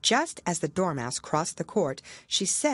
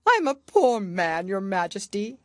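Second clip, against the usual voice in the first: pleading Hatter; 4 semitones higher, 5 dB louder than usual. Acted. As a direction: beg on one knee. Hatter voiced.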